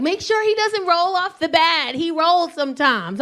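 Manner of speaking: slow, lightly voiced cautioning mother; a hint of a drawn-out motherly warning; imitated mom. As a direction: warn them slowly, like a careful mom. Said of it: "the mom was like".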